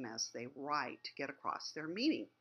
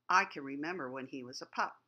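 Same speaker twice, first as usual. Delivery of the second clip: quick reading; 4 dB louder, faster than usual. Shown as a demonstration. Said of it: "Just sounding that out tells you".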